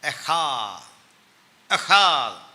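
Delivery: "എഹാദ്" with a forceful throaty h; "എഹാദ്" building to a loud thump; punched pronunciation. Shown as a demonstration. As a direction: punch the long haa in "എഹാദ്". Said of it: "ഒരു punch".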